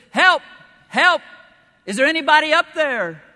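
high, loud panicked cry for help; man dangling from a cliff yelling for help; desperate yelling. Acted. Falling man calls out in joke.

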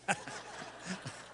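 a quick silent chuckle at the punchline; breathy laugh. Real, not acted. Pastor laughing at his own airplane joke, a breathy chuckle.

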